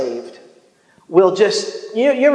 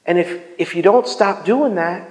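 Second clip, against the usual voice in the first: tender firm voice; 3 dB quieter than usual. Retold or imitated. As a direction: lovingly tell them to stop. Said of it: "the same voice that says".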